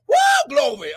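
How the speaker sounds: "Woo" whooped high, then "glory"; high joyful whoop into glory; ecstatic woo glory. Real, not acted. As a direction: burst out in praise. Ecstatic cry mid-sermon.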